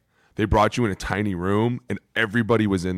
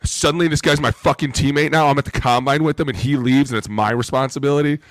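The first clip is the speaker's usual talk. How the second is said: higher, worked-up complaint; indignant protest; 5 semitones higher, 3 dB louder than usual. Retold or imitated. Player blamed for roommate leaving, indignant protest. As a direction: object to being blamed, in mild outrage.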